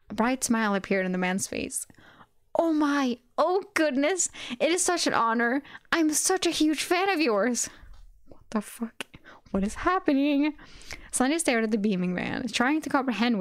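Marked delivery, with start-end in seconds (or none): 2.5-7.7 excited high gushing voice; gushing fan. Acted. Fanboy gushing over Sunny. 8.3-10.5 shocked whisper. Real, not acted. Reader whispers reaction.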